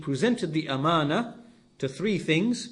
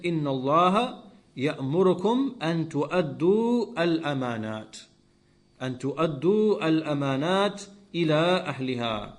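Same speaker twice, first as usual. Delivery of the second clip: fast, flowing recitation of the verse; Quran recitation; much faster than usual. Acted. Preacher quoting the verse to his listeners, swift recitation. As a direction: chant the Arabic verse in one swift breath.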